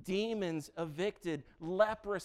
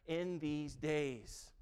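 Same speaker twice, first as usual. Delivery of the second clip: incredulous question; 3 semitones higher, 6 dB louder than usual. Acted. Cleopas incredulous to Jesus.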